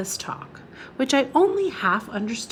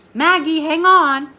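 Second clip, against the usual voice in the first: Maggie, hang on called out louder and higher; urgent call; 7 semitones higher, 7 dB louder than usual. Acted. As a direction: urge her to hold on, on stressed. Rider urges swaying girl.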